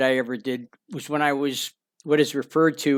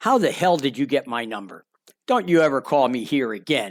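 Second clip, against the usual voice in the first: put-on furious man voice. Retelling how a man answered a cold sales call: imitating a furious man. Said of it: "he'd be furious".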